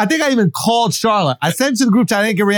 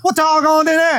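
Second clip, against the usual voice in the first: put-on twangy Southern hillbilly accent voice; 7 semitones higher than usual. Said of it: "how do hillbillies say it".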